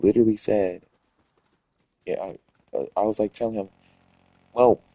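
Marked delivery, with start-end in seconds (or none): 2.1-4.8 real stutter, words tripping. Real, not acted. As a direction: stumble over the start of the words. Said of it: "shoot, I'm stuttering".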